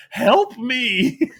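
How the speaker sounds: high, pleading mock whimper; whiny cry for help. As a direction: play a beaten wrestler begging from the corner. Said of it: "he was in his corner going".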